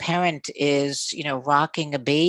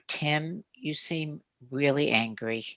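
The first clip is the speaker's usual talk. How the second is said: a softer, calm radio-host murmur; late night FM voice; 6 dB quieter than usual. Shown as a demonstration. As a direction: talk him down gently like a night DJ. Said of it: "I would use my late night F M voice".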